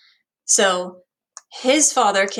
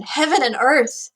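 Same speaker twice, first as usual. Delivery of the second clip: higher-pitched exclamation with a touch of distress; upset interjection; 5 semitones higher than usual. Acted. Teacher quoting Hamlet's interjection, mildly upset. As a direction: cry out lightly at a painful memory. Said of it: "He's so upset remembering this".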